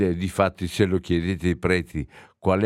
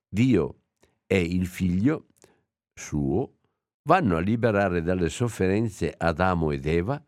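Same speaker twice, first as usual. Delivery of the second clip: solemn homily reading; 2 semitones lower than usual. Acted. Priest reading the Holy Saturday homily to his listeners, solemn and measured. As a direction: read it like a sacred text from the pulpit.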